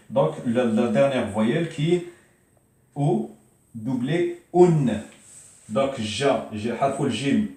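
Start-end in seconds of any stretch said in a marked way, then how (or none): 4.5-5.0 "un" punched loud and high; loud tanwin demo. Shown as a demonstration. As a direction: belt out "un" clearly. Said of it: "pour vous montrer".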